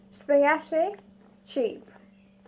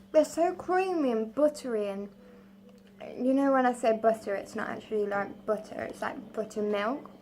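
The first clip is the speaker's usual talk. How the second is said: mouthful. Real, not acted. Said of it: "Sorry, I'm talking with my mouth open, mouthful".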